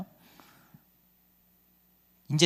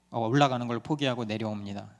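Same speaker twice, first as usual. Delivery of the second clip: normal talking voice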